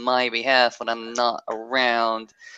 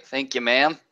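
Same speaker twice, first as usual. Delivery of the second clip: stoner voice. Acted. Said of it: "really stoner voice".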